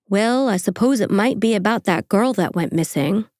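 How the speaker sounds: put-on a light, uncertain stab at a Midwest accent; lightly put-on rural Midwest accent; attempted Midwest accent. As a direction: quote him in a rough South Dakota accent. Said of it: "what kind of accent that was".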